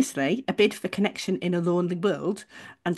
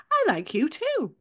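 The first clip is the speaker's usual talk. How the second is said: encouraging; 8 semitones higher than usual. Retold or imitated. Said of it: "in an encouraging way".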